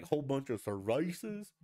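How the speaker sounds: hammed-up accent-switch, rising at the end; mock Spanish accent. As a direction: show off an affected Spanish accent on "cervezas". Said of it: "speak with an accent on certain words".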